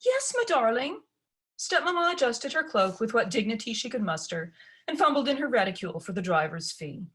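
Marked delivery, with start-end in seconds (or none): 0.0-1.0 higher, indulgent mother voice; fond stepmother. Acted. Stepmother indulges her daughter in a higher voice. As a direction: soothe the spoiled daughter.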